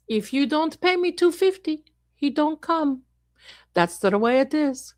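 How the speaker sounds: lightly voiced haggling psychic; gypsy fortune teller. Gypsy demanding payment from a client, lightly put-on fortune teller.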